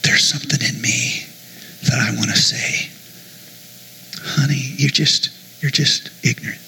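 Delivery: quiet secret aside to the congregation; talking quietly. Real, not acted. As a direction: say it softly so no one overhears. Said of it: "I'm gonna talk quiet so they can't hear me".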